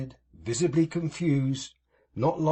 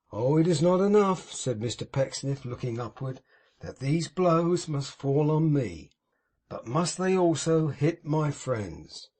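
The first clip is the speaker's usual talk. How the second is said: theatrical lament. Acted. Pecksniff bemoaning blows on his friends, self-pitying.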